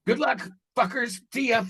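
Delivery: fed-up farewell. Retold or imitated. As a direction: toss it off and walk away from it all. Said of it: "throw my hands up and go".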